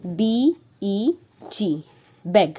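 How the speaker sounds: slow, repeated ब ब ब ब then letter names; teacher drilling letter sounds; phonics sounding out. Shown as a demonstration. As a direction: stretch each sound for a child. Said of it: "उसी के सामने हम लिखेंगे बेग".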